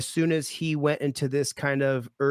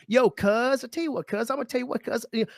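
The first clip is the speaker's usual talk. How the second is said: a hint of a gangster voice, slightly higher; mock hood slang, half-hearted; gangster hood lingo; 5 semitones higher than usual. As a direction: imitate the guard going street, cuz by cuz. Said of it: "switched to gangster hood lingo".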